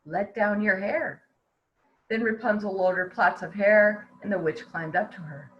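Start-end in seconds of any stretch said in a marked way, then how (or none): 0.0-1.2 calling up the tower. Acted. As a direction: sing the name up to the window. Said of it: "call out".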